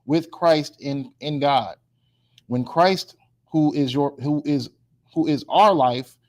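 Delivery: slow, measured Bible reading; scripture reading. Real, not acted. Preacher reads a verse to the class, slow measured reading. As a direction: read it out slowly, pausing between phrases.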